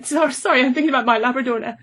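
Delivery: real emotion, pushing the words out fast before it breaks; choked up. Real, not acted. Interviewer choking up talking about her Labrador, tearful and rushed. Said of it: "I'm gonna get emotional now".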